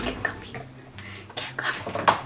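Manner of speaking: breathy whispered tease; playful whisper. Pretend. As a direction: whisper it like a secret game. Playful whispered back-and-forth.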